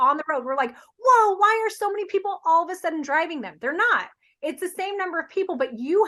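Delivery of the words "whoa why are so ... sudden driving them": higher-pitched astonished wondering; wide-eyed, put-on disbelief; mock amazement. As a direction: act out sudden surprise at what you notice. Acting out surprised drivers on road.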